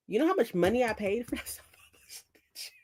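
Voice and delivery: whispered aside, a little fast; hushed confession of a splurge; guilty whisper. Real, not acted. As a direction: whisper it like a secret.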